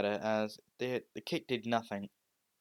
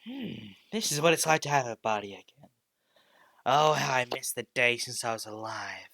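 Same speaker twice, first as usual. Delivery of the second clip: sinister possessed voice; 6 dB louder than usual. Acted. Dark entity possesses Deku's body.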